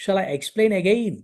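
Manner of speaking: very slow, word by word English; slow teaching read. Shown as a demonstration. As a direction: spell it out slowly for learners. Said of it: "ఇంకా అర్థం కాలేదా? (phrase being taught)". (నెమ్మదిగా, పదం పదంగా)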